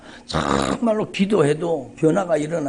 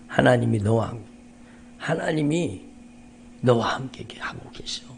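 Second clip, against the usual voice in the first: tender sister. Retold or imitated. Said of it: "그 누님이 전화를 하셨는데".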